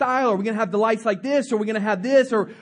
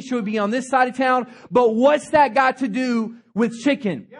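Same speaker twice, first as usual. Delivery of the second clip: put-on elderly founder rebuking the young board; stern old founder. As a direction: lay it down firmly to the room. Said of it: "he looks at everybody and says".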